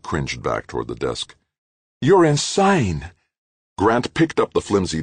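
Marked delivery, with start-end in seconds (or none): 2.0-3.1 much higher, louder, slow cry; terrified outburst. A narrator's reading. Halleck crying out at Grant in fear. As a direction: fling it out in fear.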